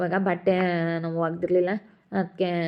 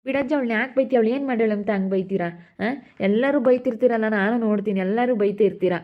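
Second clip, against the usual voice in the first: raised-voice objection to a scolding; louder, higher-pitched reproach; indignant protest; 3 semitones higher, 4 dB louder than usual. Acted. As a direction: step in loudly to defend someone being scolded. Acted protest against scolding.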